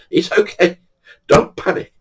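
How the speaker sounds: high voice, losing its tone at the end; mock calming-down, pitched high; placating reassurance. Teller telling the missus not to panic, high placating.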